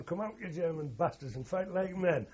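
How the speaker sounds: officer daring the Germans, mildly shouted; retold shout. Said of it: "He's shouting".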